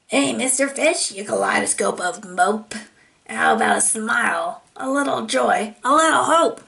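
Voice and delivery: a rude squid teasing the fish; impolite squid. Acted. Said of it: "She is slightly impolite".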